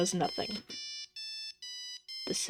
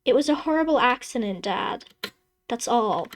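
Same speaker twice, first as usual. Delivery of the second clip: desperate plea; 3 semitones higher, 4 dB louder than usual. Acted. Daughter begs her father to accept the accident, loud and fast. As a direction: push it out fast, begging him.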